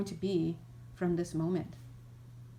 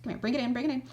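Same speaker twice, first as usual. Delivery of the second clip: bright, much higher coaxing big-sibling voice; cheery big brother; 4 semitones higher, faster than usual. Retold or imitated. Big sibling comforting a fallen child, high cheery coaxing. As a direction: scoop up the crying kid and pull them into a hug. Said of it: "and they're like".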